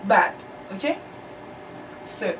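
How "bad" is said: whispered bad. Shown as a demonstration. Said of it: "کلمهٔ بد".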